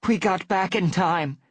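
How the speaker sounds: high, loud and breathless with relief; gasping relief. A narrator's reading. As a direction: blurt it out catching her breath. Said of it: "she meowed with a gasp".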